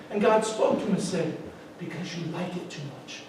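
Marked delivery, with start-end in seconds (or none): 1.8-3.2 quiet voice of God. Acted. God answers the man.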